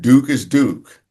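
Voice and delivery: put-on slow New England accent on Duke is Duke. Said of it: "he said it in a New England accent".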